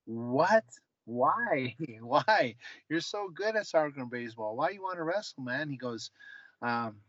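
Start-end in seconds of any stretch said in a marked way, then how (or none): 0.1-5.7 retold surprise. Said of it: "And I go".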